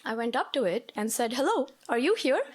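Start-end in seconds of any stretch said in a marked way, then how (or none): 1.3-2.4 calling out. Retold or imitated. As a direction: call through the wall, half laughing. Calling to a hidden man.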